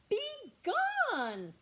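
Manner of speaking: a big roar of "Be gone!". Acted. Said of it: "roared Bear".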